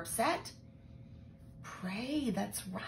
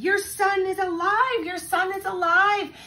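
higher, louder, shouting with joy; joyful shout; 12 semitones higher, 11 dB louder than usual. Acted. Elijah running to the mother with the boy, shouting joyfully. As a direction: cry it out twice, overjoyed. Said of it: "he shouted out with joy".

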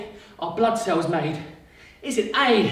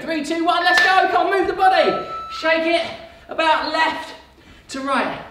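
energetic shout; 9 semitones higher than usual. Acted. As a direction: fire everyone up to move. Coach calling out to start moving.

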